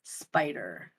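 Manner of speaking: spider said the Australian way, spaɪtə; the speaker's Australian spider; Australian accent. Shown as a demonstration. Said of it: "Please say the word spider".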